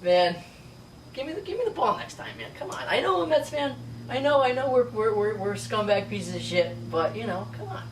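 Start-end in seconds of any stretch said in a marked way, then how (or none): 1.1-7.8 high-pitched whiny plea; mock pleading. Mets fan pleads with Ozzie Albies for the ball, high whiny begging. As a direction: whine like a kid denied the ball.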